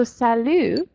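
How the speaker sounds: drawn-out "salut" ending on the vowel; silent final T. Shown as a demonstration. Teacher models a casual greeting to friends, silent T. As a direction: say "salut" as sa-lu, slowly. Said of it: "you don't pronounce the last letter".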